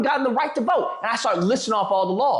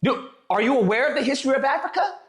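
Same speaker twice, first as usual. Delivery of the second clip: raised indignant retort; 2 semitones higher than usual. Retold or imitated. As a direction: push back, incredulous. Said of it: "I was like".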